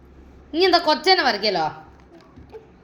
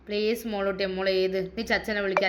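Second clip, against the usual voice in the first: gentle pleading; 4 semitones lower, 6 dB quieter than usual. Real, not acted. Mother pleading with child to write.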